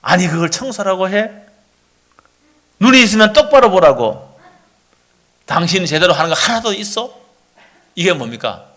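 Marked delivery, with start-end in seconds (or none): 0.0-7.1 scornful spouse, louder on the middle jab; acted contempt. Spouse sneering at the other's cleaning, acted contempt. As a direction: belittle them with pointed rhetorical questions. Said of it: "이게 경멸하는 거야".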